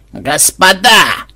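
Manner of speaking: slow, loud, high panicked cry; panicked plea. Acted. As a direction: beg in sudden panic. Кощей в панике перед атакой.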